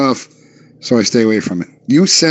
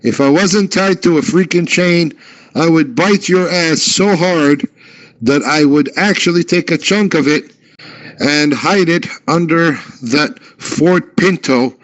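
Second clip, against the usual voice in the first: higher, mock-furious dog cursing; angry chained dog; 5 semitones higher than usual. Chained dog threatens the man, mock fury. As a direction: rant like a dog straining at its chain. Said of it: "that's what the dog said".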